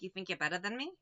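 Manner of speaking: low, softly put-on Boston tough talk; Boston accent. Shown as a demonstration. Vlogger showing off her favorite phrase, Boston accent. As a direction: challenge them in a Boston accent. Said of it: "my favorite thing is my boss and, like".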